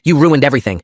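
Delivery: loud, high snarl of rage. Acted. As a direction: spit it out in fury. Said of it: "he snarled".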